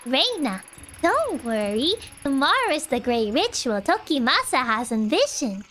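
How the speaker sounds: sweet but unsettling reassurance; creepy calm cultist. Acted. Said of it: "cultist-based nightmares".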